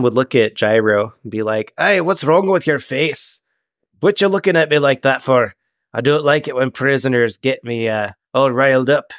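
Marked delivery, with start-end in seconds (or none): 1.8-9.1 lightly voiced salty captain; slightly raised captain's voice, needling; ship captain, confrontational. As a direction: challenge a prisoner as a hint of a sea captain. Game master voices ship captain.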